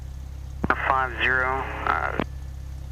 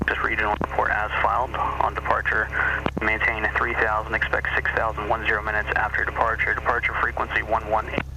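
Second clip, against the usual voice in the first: air traffic control radio. Real, not acted. Controller reading clearance over radio.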